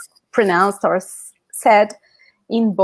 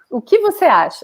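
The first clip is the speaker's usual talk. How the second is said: Brazilian phrasing; 2 semitones higher, faster than usual. Shown as a demonstration. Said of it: "que tu pensas?".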